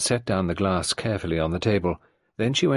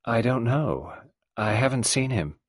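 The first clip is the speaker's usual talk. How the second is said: gentle expressionless; 4 semitones higher than usual. Acted. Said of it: "her gentle, expressionless voice".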